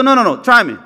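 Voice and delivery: eager insistence to learn; insisting. Retold or imitated. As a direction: push it like you won't take no. Musa insisted, asks again.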